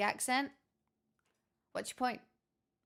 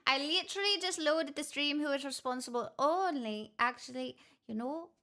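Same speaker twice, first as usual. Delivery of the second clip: playful put-on Irish; Irish accent; 2 semitones higher than usual. Streamer chats about gifted subs, put-on Irish accent. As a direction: keep up the Irish lilt. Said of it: "where the Irish accent has appeared".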